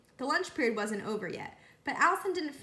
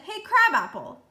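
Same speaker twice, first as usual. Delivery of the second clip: loud, high schoolyard taunt; taunting call; 8 semitones higher, 10 dB louder than usual. A narrator's reading. Kids jeering at Eric across the yard, loud taunt. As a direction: call it out like a teasing kid.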